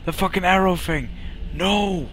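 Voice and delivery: high-pitched pleading outcry; exasperated protest. Real, not acted. Player begs the game to stop the arrows, high exasperated protest.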